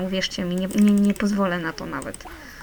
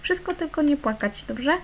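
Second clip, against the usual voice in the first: much higher sing-song coaxing; baby-talk coax; 9 semitones higher than usual. Acted. Mother cooing to her sad kids, high baby talk. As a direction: coo up high to the little ones. Talking to crying game kids.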